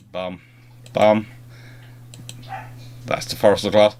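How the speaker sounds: ordinary talk, nothing marked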